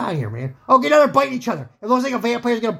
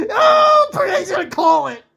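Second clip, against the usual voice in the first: much higher and louder, yelling over the action; excited shout; 11 semitones higher, 6 dB louder than usual. Real, not acted. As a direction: shout it as the big hit lands. Big hit, referee stepping in.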